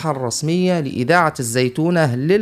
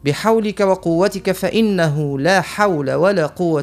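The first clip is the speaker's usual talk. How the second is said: prayer. Acted. Closing supplication, slow.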